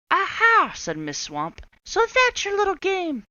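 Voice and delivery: high, loud gotcha; triumphant witch. Acted. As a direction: pounce on the discovery. Swamp discovering mask.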